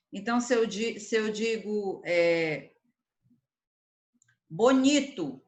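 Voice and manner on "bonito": bonito with the middle syllable raised; bonito, stressed on its second syllable. Shown as a demonstration. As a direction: lean hard on the ni in bonito. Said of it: "qual sílaba é pronunciada com mais intensidade".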